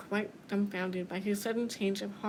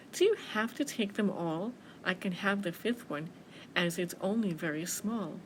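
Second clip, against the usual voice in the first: gently coaxing little mouse; sweetly; 3 semitones lower than usual. Acted. Mouse coaxing bear for an apple, sweetly. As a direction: ask with a touch of sweetness. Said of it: "she said so sweetly".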